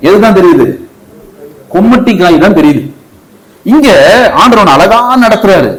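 high-pitched, insistent sermon delivery; impassioned preaching. Real, not acted. Preacher illustrates with raised voice.

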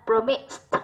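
promised, the -ed sounded as t; final T in promised. Shown as a demonstration. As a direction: say promised ending in a crisp "t". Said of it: "là âm T". (đọc promised kết thúc bằng âm T)

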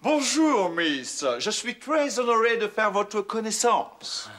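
mock English accent. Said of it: "je parle couramment anglais".

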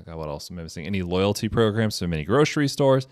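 brisk radio announcer voice, rattling off the legal disclaimer. Pretend. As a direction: read it like a quick radio announcer. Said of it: "Gotta put my radio voice".

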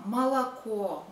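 молоко as "ma-la-KO"; neutral unstressed vowels. Shown as a demonstration. Teacher showing neutral sounds, молоко as "malaKO". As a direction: reduce the first two o's of молоко. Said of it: "we give some neutral sound".

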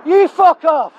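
loud, hard insult thrown across the car park; angry shout. Real, not acted. Filmer yelling at the worker as he walks away, a loud angry insult. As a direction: bark it at him.

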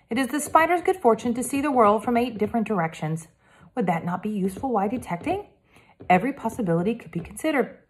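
lightly voiced polite French boy detective; a hint of a careful French accent, earnest; Hector, French boy.

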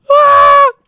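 high, loud scream of panic; panicked scream. Real, not acted. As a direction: shriek as time runs out. Timer ran out.

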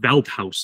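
Wealth House said "Velt-house"; rejected pronunciation. Shown as a demonstration. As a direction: say Wealth with a v and a hard t, House as in mouse. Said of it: "That's wrong".

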